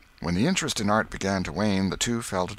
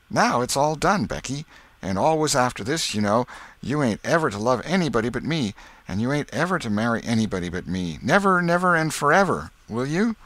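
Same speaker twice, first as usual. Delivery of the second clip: higher, emphatic schoolboy voice; insistent boy Tom; 6 semitones higher, 4 dB louder than usual. Acted. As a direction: make her promise forever. Tom lays down engagement rules.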